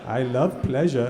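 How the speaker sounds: slow, stiff mock declaration at customs; mock formal declaration. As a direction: declare it slowly like a soldier at attention. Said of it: "you just put your feet together".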